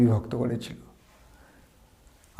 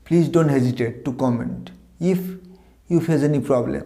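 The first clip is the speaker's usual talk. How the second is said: very slow, word-by-word English reading; slow model sentence; much slower than usual. Shown as a demonstration. Teacher reading an example sentence to students, very slowly. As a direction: read it slowly for learners. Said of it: "As a বাক্য হিসেবে বলতে পারি".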